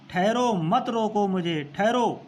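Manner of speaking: mildly acted plea not to be stopped; urgent protest. Voices queen stopping those interrupting her. (हल्के अभिनय में आग्रह भरी रोक)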